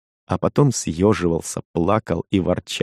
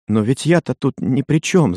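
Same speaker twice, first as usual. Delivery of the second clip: crying out; 6 semitones higher, 3 dB louder than usual. A narrator's reading. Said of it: "заплакала она".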